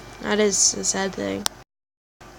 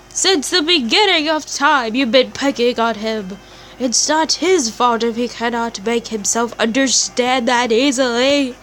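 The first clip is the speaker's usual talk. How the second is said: accusing scolding. Acted. Character keeps accusing.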